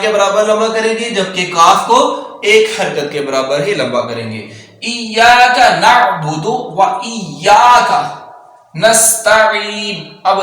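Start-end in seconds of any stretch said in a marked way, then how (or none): 4.8-10.1 slow drawn-out recitation. Shown as a demonstration. Teacher reciting the verse slowly. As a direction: hold each syllable. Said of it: "slow model recitation".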